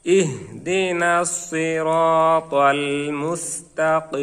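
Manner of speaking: slow chant, মুস্তাকিম ending on a long-held ī closed by m; waqf with stretched ending. Shown as a demonstration. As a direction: stop on মুস্তাকিম, stretching its last vowel threefold. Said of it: "এক আলিফকে তিন আলিফ টেনে". (মুস্তাকিম শেষে তিন আলিফ টেনে ওয়াকফ)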